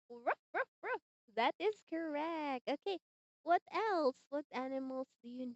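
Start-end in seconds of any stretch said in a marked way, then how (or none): 0.1-1.0 dog bark. Shown as a demonstration. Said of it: "the sound of the dog".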